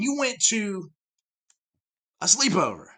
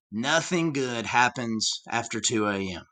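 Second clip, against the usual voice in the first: dad's saying; 10 semitones lower, 7 dB quieter than usual. Retold or imitated. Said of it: "my dad always had this saying".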